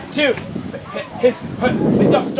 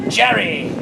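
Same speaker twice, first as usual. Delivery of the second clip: low, dramatic name reveal; dramatic pose; 4 semitones lower than usual. Acted. Messenger striking a pose, low dramatic reveal. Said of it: "strikes a dramatic pose and says".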